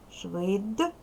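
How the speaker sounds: швид- with a clearly voiced D at the end; voiced final consonant. Shown as a demonstration. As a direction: let the D in швид- ring, never like T. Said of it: "дзвінко".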